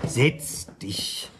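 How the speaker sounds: soft insistent whisper; whispered order. Acted. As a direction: press him down quietly. Quiet order to friend.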